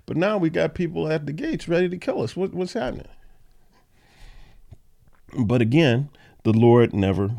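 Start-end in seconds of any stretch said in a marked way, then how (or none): 0.0-3.1 imitating bewildered Jeremiah. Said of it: "Jeremiah ... was saying".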